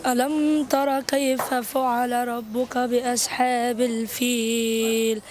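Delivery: slow, drawn-out chant of the surah; slow Quran recitation. Real, not acted. Boy recites Surat al-Fil for the street quiz, slow chant. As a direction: recite each word slowly and evenly, like in prayer. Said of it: "قول".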